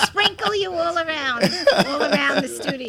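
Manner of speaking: laughing through the words; giggling while teasing. Real, not acted. Joking about cremation.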